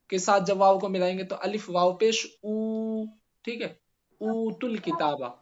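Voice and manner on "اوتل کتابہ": "اوتل کتابہ" slowly, as uutul kitaaba; Arabic-style reading. Shown as a demonstration. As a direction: open "اوتل" on a long "oo". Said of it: "پڑھتے ہیں نا ہم عربی میں".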